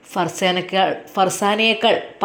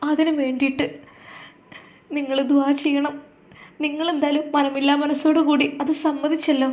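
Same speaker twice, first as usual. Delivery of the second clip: higher, earnest wife begging him; pleading wife; 5 semitones higher than usual. Acted. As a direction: plead with your husband not to worry. Wife explaining her plan.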